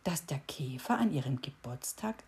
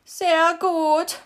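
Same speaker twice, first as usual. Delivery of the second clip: much higher, loud wailing beetle; howled; 12 semitones higher, 11 dB louder than usual. A narrator's reading. Knocked-over beetle howling at the cricket. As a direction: wail it out high. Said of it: "heulte er".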